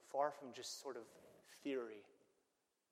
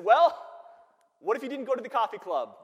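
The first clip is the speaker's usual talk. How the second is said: pointed suggestion; 10 semitones higher, 18 dB louder than usual. Retold or imitated.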